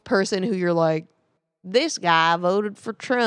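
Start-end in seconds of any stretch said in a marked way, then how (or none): 1.6-3.3 Southern dumb guy. Acted. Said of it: "do you do a Southern accent".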